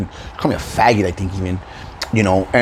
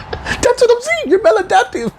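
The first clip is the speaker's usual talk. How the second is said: high, laughing jab; laughing mockery. Real, not acted. Mocking the critic, high laughing jab.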